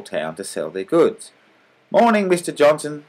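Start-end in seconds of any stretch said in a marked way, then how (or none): 1.9-3.0 polite, higher greeting. A narrator's reading. Kind salesman greeting his rival, politely. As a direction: greet him politely and kindly. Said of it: "said kind Mister Wallace politely".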